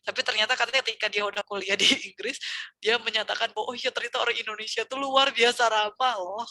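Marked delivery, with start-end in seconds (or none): 3.7-6.4 friend realizing with mild surprise; a touch of amazed discovery; surprised realization. Retold or imitated. Friend abroad admitting Indonesians are friendly, lightly surprised. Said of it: "kata dia".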